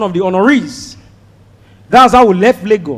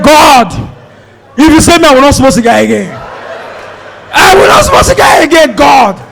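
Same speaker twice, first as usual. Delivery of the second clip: bargaining prayer; 3 semitones higher than usual. Retold or imitated. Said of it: "One guy said".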